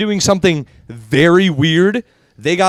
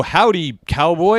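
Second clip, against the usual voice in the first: put-on cowboy accent; 3 semitones higher, slower than usual. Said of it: "they always go".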